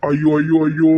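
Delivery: acted wail of fear and helplessness; tearful wailing. Parent fretting over money due tomorrow, tearful wailing. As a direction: cry out in dread, lamenting. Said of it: "நீ அழுதுட்டு இருக்க".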